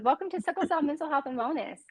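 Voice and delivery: whispered welcome. Real, not acted.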